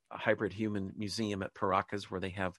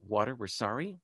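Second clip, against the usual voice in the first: led prayer; 3 semitones higher than usual. Shown as a demonstration. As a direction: pause after each short plea, as if leading a congregation. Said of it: "You just say".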